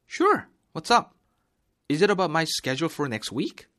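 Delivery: very high, loud "Sure. What's up?"; lively coworker reply; eager reply. Shown as a demonstration. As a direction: sound keen and curious. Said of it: "감정을 살리고".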